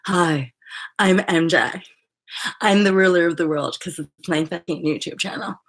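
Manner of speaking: loud boastful mock greeting; mock arrogance. Mocking a self-important YouTuber, loud boast. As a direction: ham up a self-important host. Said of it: "there's no, like".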